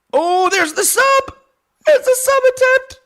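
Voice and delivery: high, loud excited yelling; excited shout. Real, not acted. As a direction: shout it as the sub locks in. Submission attempt in fight.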